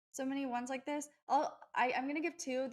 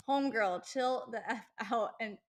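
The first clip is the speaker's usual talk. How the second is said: a louder, bossy mock scolding voice; voicing her body; 4 dB louder, slower than usual. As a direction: have your own body tell you off. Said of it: "But obviously my body was like".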